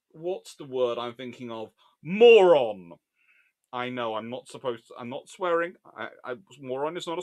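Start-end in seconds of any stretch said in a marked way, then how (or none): 2.0-2.9 loud, drawn-out verdict; emphatic insult. Real, not acted. Commentator names what the blunderers are, loud emphatic insult. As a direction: land it loudly and slowly.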